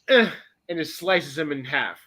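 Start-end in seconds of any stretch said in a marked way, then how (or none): 0.1-0.3 short, lazy "ugh"; offhand mock-lazy grunt. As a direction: toss off an effortless grunt. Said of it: "just lazily goes".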